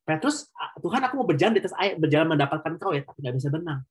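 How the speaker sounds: a hint of a nervous Peter, pleading and hedging; playful mock plea from an unsure swimmer; imitating nervous Peter. Preacher voices a hesitant Peter.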